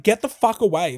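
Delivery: loud, furious; angry shout. Retold or imitated. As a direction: bark it through the door. Retold kicking door, yelling.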